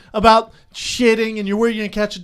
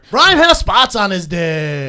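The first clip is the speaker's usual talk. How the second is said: announcer voice; 5 dB louder, slower than usual. Acted. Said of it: "I can't stop talking like this".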